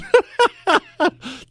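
high, helpless burst of laughing; breaking into laughter. Real, not acted. Host after cutting off a caller, high amused laugh. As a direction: crack up after the stern lecture.

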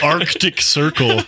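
ARCTIC with its first C fully sounded, mockingly; hammered-out "Arctic", both Cs audible; mocking pronunciation. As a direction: overpronounce the hard C in Arctic. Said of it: "Dude, he says freaking".

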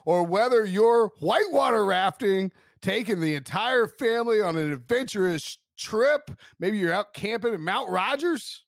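upbeat sponsor read, pitch lifted; lilting promotional read. Acted. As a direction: sell it like a podcast car ad. Reads a sponsor ad.

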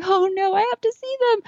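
high pleading whine; anxious. Retold or imitated. Worried about losing the horses, high pleading cry. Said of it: "I'm like".

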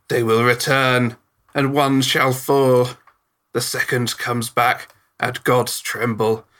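slow, solemn prophecy; trance prophecy. Acted. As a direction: chant it as in a trance. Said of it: "eyes kinda go slightly out of focus".

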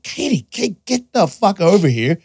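high, urgent summons to the wife; panicked call to wife. Retold or imitated. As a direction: call your wife over, voice jumped up. Calling wife over in panic.

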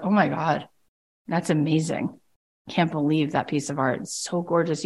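soft, awed hush in a gallery; hushed awe. Retold or imitated. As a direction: breathe it out like you're before a masterpiece. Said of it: "You have to whisper".

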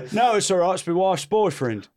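wobbly put-on Cockney; Cockney caller. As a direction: confess in mock Cockney, half laughing. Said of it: "is Cockney".

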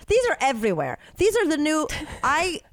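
talking around a plastic stopper; chewing while talking. Real, not acted. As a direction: chew on something while you talk. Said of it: "You're chewing on them?".

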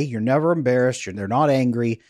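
ordinary talk, nothing marked

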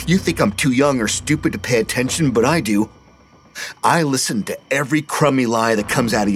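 a hint of bitter scorn at grandpa; angry accusation. Petey confronts grandpa angrily.

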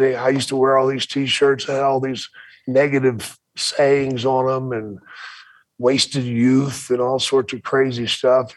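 normal talking voice

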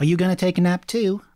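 loud question. Acted. Player calls to hostess.

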